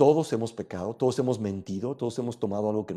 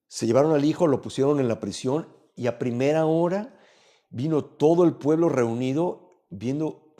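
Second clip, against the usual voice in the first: usual speaking voice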